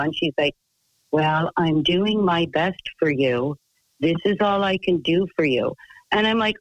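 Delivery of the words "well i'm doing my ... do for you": mock monotone counselor. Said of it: "Your monotone voice".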